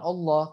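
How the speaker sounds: "Allah" said as "Olloh"; wrong O vowel. Shown as a demonstration. Teacher repeats the mistake to avoid, O-start "Allah". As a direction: begin "Allah" with a rounded O. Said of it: "Ya, bukan Allah".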